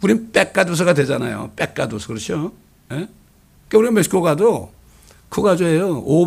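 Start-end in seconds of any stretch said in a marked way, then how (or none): 0.3-2.1 "빽가도서" with tight, unaspirated pp and kk; Korean-style tense "빽가도서"; tense Korean consonants. Shown as a demonstration. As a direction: hit "빽가도서" with tense double stops. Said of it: "된 소리를 못해".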